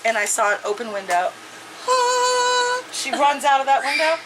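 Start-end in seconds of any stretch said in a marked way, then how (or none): 1.9-2.8 long high "ah"; high cry. Real, not acted. Reader reacts to the open window, high cry. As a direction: let out a high, held cry. Gasps out at the story's turn.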